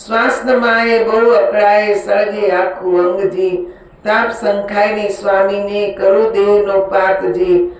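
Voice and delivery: even, singsong metrical reading; rhythmic scripture recitation; devotional verse recitation. Acted. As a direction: recite each couplet in a steady repeating cadence.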